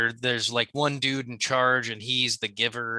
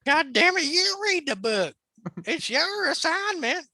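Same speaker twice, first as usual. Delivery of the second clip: higher, slow scolding mom voice; mock mother scolding; slower than usual. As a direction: scold the kid, dragging it out. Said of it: "I didn't go as high pitched".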